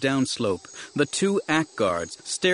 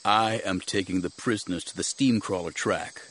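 lightly voiced Jedi, lower and measured; resolute Jedi master; 4 semitones lower than usual. Jedi informing the guard blocking him, resolute. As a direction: state it evenly, a little low.

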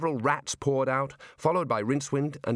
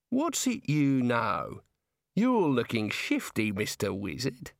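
put-on Australian girl voice; slower than usual. Neelet's lines in the story.

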